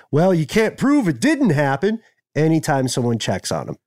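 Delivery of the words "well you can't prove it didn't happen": higher, know-it-all brush-off; smug dismissive. Retold or imitated. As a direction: wave it away with smug confidence. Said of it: "and confidently go".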